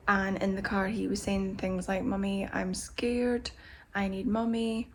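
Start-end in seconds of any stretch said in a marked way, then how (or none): 2.0-4.9 scared whisper. Retold or imitated. Son voiced scared in car.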